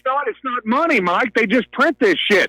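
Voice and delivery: worked up. Real, not acted. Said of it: "Okay, calm down, calm down".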